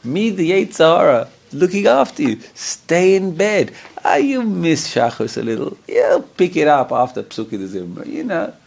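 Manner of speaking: high, syrupy evil inner voice; Yetzer Hara voice. Acted. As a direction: sweet-talk him into staying in bed. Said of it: "That's exactly what my Yetzer Hara sounds like".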